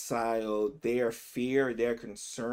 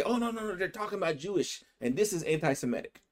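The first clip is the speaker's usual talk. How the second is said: higher-pitched imitation of an objector; mock objection; 7 semitones higher, faster than usual. Host voicing an outsider's objection to the Jesus quote, mock protest.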